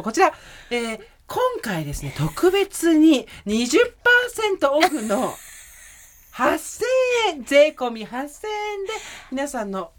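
TV shopping host. Pretend. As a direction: sell it like a shopping channel host. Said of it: "ちょっとオーバーザさん売ってもらっていいですか？".

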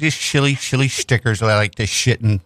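"shilly" and "shit" said with sh for s; slushy sh for s. Pretend. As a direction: slur "shilly" with a sh sound. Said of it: "Just chilly stickers?".

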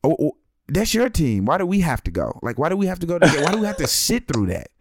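lightly voiced whining nine-year-old girl; whiny daughter. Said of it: "And she was like".

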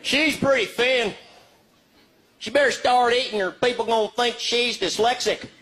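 lightly voiced Texan dude, slow in places; a hint of a drawling Texan; Texas guy. Texan guy at a store commenting on a girl, light Texan voice. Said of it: "They're like".

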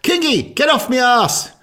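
high yelled telling-off, laughing; shouting. Retold or imitated. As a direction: yell it at him high and loud. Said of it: "my coup de grace at the end was".

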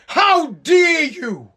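hammed-up shout, very slow and drawn out; mock outraged shout. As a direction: bellow it like a wailing protester. Mocking outraged protesters, climax.

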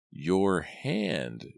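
put-on raspy old crone, insistent; deep raspy voice. A narrator's reading. Old Aggie repeating her demand to Simon, raspy. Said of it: "in her deep, raspy voice".

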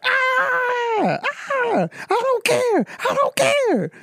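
mock wail, very high and stretched out; hammed-up tantrum of a crying boy; screaming crying kid. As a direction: imitate a child bawling in a high falsetto. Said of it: "I just hear screaming".

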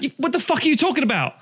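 high, incredulous put-on voice; a hint of a baffled metalhead; mock baffled retort. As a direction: act out a bewildered fan. Acted exchange with a metal fan.

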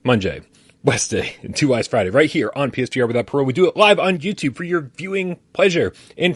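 livestream host intro read; upbeat presenter intro; show intro. Acted.

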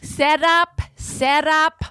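high, deliberate lecturing in imitation Asian accent; segmented, Asian-accented comedy lesson; mock Asian accent. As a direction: teach it in a put-on Asian accent. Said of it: "and he's like".

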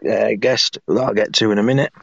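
hoarse, rough croaky throat. Real, not acted. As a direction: talk through a croaky sore throat. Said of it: "Apologies for my croaky voice".

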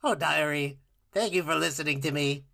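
a lightly voiced, lonely Ice King; a gentle hint of the old wizard confiding; Ice King impression. To his co-host, lightly voicing the Ice King to his diary. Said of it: "I'm gonna butcher Ice King again".

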